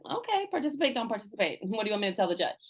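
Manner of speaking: mild imitation of an unbothered calm ultimatum; lightly voiced level counselor, no heat. Counselor to the defiant teen, mild mock calm ultimatum. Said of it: "very calmly was like".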